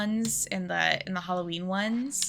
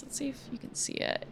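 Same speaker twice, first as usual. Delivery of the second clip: whispering; 4 semitones higher, 8 dB quieter, faster than usual. Real, not acted. Quietly showing camera an item.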